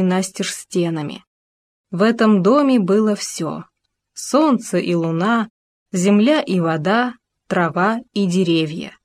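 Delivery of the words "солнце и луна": plain reading voice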